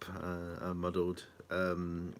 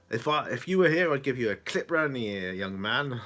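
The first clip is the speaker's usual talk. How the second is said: put-on a teasing old mother scolding her son; mock stern mum; 3 semitones higher, 4 dB louder than usual. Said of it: "And then she said".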